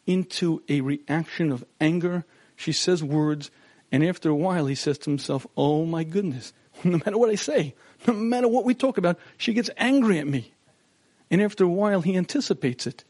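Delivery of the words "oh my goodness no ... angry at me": exasperated husband. Retold or imitated. Husband exasperated by wife's anger.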